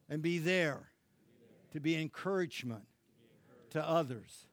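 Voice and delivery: line them out, pausing after each phrase; leading a prayer. Acted. Leads congregation in prayer.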